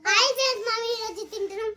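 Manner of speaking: pretend vlogger greeting. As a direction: greet the friends like a vlog host. Child plays a YouTuber greeting.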